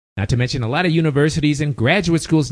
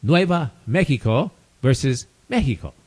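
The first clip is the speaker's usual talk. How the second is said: Mexico in Spanish, as "MEH-hee-co"; Spanish pronunciation. Shown as a demonstration. Names that confuse Latins, in a Spanish accent. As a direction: give Mexico a Spanish h sound in place of x. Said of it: "Latins who are totally confused".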